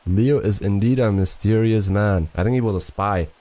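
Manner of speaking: put-on imperfect French accent, storytelling; attempted French accent. Player reading on about mysterious Leo, attempted French accent. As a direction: keep up a loose French accent while reading. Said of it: "That French accent was sexy".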